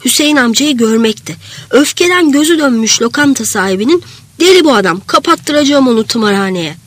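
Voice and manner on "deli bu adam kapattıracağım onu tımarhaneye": understated narrated angry outburst; mildly raised voice, a touch of fury; angry shout. Acted. Enraged restaurant owner rages at the injured man, restrained angry shout. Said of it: "diye bağırışını duymaktı".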